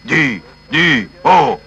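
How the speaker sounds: you don't believe a word of his drama; mock disbelief at his suffering; doubting sceptic. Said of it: "si vous êtes sceptique".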